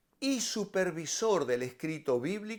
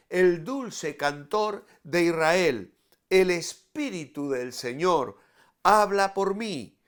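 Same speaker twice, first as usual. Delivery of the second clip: louder, declamatory Bible reading; scripture reading; 5 dB louder than usual. Acted. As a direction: proclaim the verses with solemn force. Reads scripture aloud to listeners.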